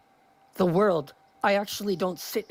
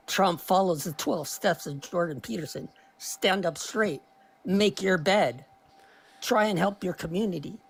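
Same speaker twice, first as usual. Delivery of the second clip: Jordan Peterson voice. Retold or imitated. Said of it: "when I get into his voice".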